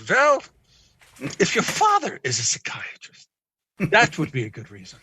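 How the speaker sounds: put-on light foreign accent, starting high on Well; the psychiatrist's accent, pausing before answering; a mild mock accent of the famous psychoanalyst; mimicking his accent. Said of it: "I say that with an accent 'cause he had an accent".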